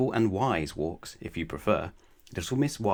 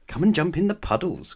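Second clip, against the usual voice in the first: high, loud, cheeky call to play; gleeful naughty invitation; naughty cry; 9 semitones higher, 5 dB louder than usual. A narrator's reading. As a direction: tempt her into mischief with a high cry. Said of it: "cried Little Miss Naughty with a naughty gleam".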